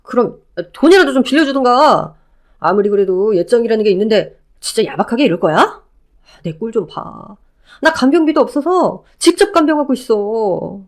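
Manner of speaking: lightly voiced ex-husband, eager and pleading; a hint of a clingy ex overjoyed to see her. Ex-husband calling out to his ex-wife, lightly voiced eager pleading.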